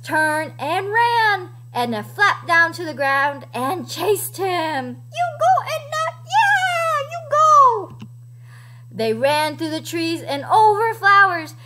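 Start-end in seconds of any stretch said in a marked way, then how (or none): 5.1-8.0 high, whooping encouragement; excited high-pitched rooting; cheering her on. Pretend. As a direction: cheer like a fan on the sidelines. Cheers the chicken on.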